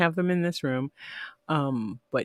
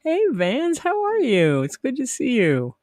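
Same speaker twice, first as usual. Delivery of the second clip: bright, high cheery hello; excited greeting; 9 semitones higher than usual. Real, not acted. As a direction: sing out a happy hello. Greeting a chat viewer.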